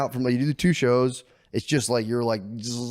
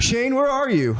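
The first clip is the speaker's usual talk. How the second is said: put-on whiny little kid; 5 dB louder, slower than usual. Son Lemaire on FaceTime.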